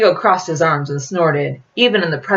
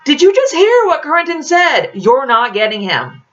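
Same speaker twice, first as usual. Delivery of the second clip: scoffing; 11 semitones higher, 4 dB louder than usual. A narrator's reading. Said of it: "Taylor scoffed".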